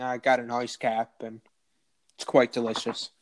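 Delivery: talking between sips of a drink; words around a sip of iced coffee; while sipping a drink. Real, not acted. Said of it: "Sorry if you can hear me drinking".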